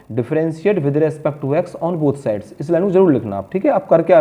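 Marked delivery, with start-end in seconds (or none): 0.1-2.6 very slow, each word spelled out for writing; slow dictation. Shown as a demonstration. Teacher dictating a step to students, very slow. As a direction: dictate slowly so students can copy. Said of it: "एक line जरूर लिखना आप".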